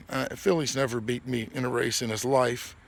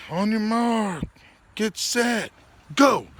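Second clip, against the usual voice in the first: race starter call; 8 semitones higher, 3 dB louder, slower than usual. Retold or imitated.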